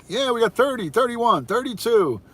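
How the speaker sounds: high auctioneer call, counting up. Pretend. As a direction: rattle off numbers like an auctioneer. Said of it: "You sounded like an auctioneer".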